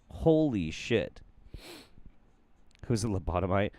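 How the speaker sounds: ordinary delivery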